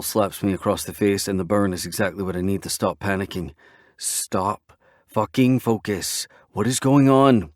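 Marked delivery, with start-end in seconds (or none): 4.0-7.5 firm. Acted. Friend snapping him out.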